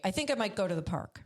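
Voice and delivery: quick, unsure statement lifting at "park"; questioning uptalk. Shown as a demonstration. Repeating how women soften what they say, tentative rise. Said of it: "raise their voice at the end of the sentence".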